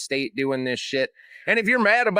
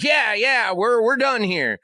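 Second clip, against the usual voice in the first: high, louder dismissive Trump voice; hammed-up Trump waving it away; mock Trump; 7 semitones higher, 4 dB louder, slower than usual. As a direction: brush it off in a mocking voice. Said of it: "And he's like".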